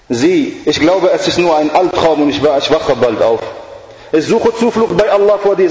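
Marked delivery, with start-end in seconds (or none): 4.1-5.7 higher, insistent repeated plea; a mild hint of the girl pleading over and over; girl repeating her plea. The girl repeating her plea to the devil, mildly insistent. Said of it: "sagt immer wieder das kleine Mädchen".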